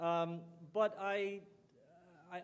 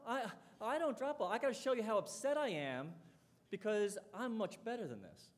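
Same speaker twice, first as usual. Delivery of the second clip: mock indignant athlete, pitched higher; prideful; 4 semitones higher than usual. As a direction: lightly act out wounded pride. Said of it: "show me how good he is".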